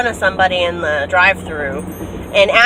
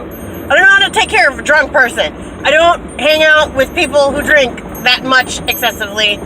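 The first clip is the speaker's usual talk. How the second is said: frantic retelling; 5 semitones higher, 5 dB louder than usual. Retold or imitated. Panicked retelling to dad.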